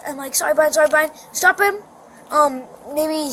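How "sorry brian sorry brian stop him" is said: retold urgent pleading. Child retells stopping brother during chase, urgent imitated plea. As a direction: act out a pressed apology.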